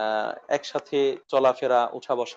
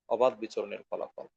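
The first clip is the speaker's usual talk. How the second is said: অবাধ বিচরণের ফলাফল repeated much softer and lower; soft echo; 3 semitones lower, 6 dB quieter than usual. Real, not acted. Preacher echoing his conclusion, softer. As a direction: drop the repeat to a hush. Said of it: "preacher repeats conclusion softly".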